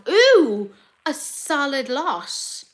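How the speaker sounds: slow, high appreciation; impressed. Real, not acted. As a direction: stretch it out, impressed. Impressed by the list of brands.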